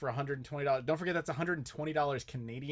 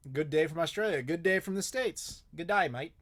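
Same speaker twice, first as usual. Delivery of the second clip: a light, playful attempt at an Australian accent; half-hearted Australian accent, g'day drawled; 3 semitones higher than usual. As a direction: greet them with a tourist's Australian accent. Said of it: "how bad was my accent".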